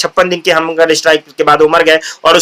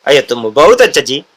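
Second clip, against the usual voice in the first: South Indian accent; 6 semitones lower than usual. Shown as a demonstration. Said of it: "क्या tone है?".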